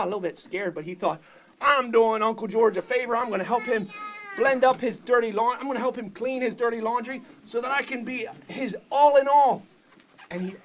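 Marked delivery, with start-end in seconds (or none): 1.6-9.6 louder, pushing resolve; eager declaration. Acted. Blender convincing himself to do the favor, loud and proud. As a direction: swell up proudly to the end.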